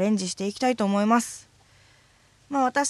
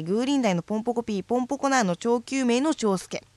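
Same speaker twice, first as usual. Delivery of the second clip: all in one breath. Shown as a demonstration. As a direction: push through the whole list without a pause. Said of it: "じゃあもう一度すいません".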